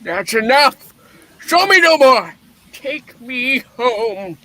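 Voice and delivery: put-on anguished shout of a frightened old miser; desperate outcry. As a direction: beg the ghost to stop, voice rising. Scrooge begging the spirit to stop.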